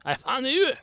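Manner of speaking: high, loud squawk rising at the end; mock triumph. Player crowing at finding Murdoch, high mock triumph.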